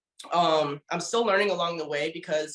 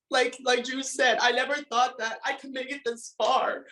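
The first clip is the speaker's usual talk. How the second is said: still emotional; 5 semitones higher than usual. Real, not acted. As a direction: hold back the tears. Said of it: "I'm sorry I got emotional".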